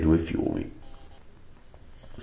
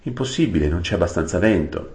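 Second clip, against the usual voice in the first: firm dismissal. Acted. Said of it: "disse Aravis".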